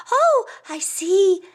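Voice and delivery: high, loud, slow realization; eagle character voice. A narrator's reading. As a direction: draw it out knowingly, pitched high.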